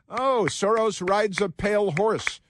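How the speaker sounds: lightly hammed-up adoring fan; mock swooning Democrat. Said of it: "the Democrats applaud".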